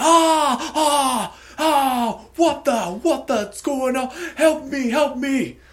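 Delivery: very high, very loud, slow, drawn-out panicked screams. Voicing the brother who fell on a rock: screaming in panic. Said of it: "the brother scream".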